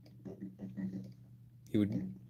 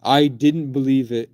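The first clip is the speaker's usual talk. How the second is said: yelling; 2 semitones higher, 6 dB louder than usual. Real, not acted. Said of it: "I'm screaming like a crackhead".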